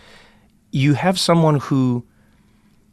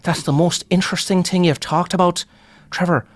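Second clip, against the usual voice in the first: higher, eager; keen comedian; 6 semitones higher than usual. Retold or imitated. Comedian telling Trevor his apartheid stories are the interesting ones. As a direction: sell it like it's the best thing. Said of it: "he's like".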